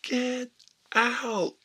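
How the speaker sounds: high, very loud imitated order; mock booming teacher throwing kids out; bombastic shout. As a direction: bellow it with big lungs, word by word. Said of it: "he was just a bombastic, big lungs, big guy".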